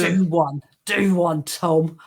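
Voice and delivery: mildly aggressive Cockney; gruff Cockney imitation. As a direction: copy a gruff Cockney telling-off. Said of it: "I liked your gruffness, so I tried to copy that".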